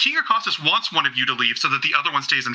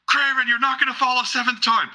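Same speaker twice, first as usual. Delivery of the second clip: high-pitched crowd call; excited fan, pitched way up; spectator cheer; 10 semitones higher than usual. Acted. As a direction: shout hope down to your champion. Spectator calling to a fighter.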